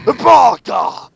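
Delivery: loud sharp yell of Baka; mock furious shout. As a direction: yell it like a scolding emperor. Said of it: "said the Emperor".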